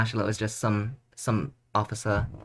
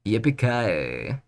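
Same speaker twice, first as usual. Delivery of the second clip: slow, hammed-up Texas cowboy yell; bad Texas accent, dragged out slowly; much slower than usual. Shown as a demonstration. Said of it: "I don't know how to do a Texas accent, so I just say".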